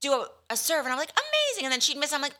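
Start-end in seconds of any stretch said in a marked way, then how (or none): 1.1-1.7 mock cheer. Cheering a serve.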